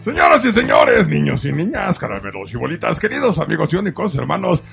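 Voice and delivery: booming ringmaster welcome. Acted. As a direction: announce it like a circus ringmaster. Host opens show like ringmaster.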